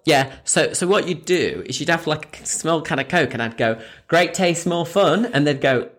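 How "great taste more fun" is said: lightly chirped slogan, slightly raised; hint of a sales call, lifting at the end; promo pitch. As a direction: offer the slogan to a passer-by.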